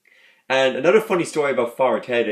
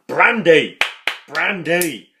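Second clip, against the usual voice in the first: high, drawn-out yell, loud at first; mock demanding shout; 5 semitones higher, 5 dB louder, much slower than usual. Fan re-enacts Father Jack calling for brandy, high shouting. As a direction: holler the drink's name as a demand.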